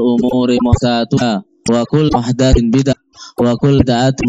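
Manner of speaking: formal Friday-sermon chant of praise; khutbah recitation. Acted. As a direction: recite the sermon preamble steadily. Formal Arabic khutbah opening.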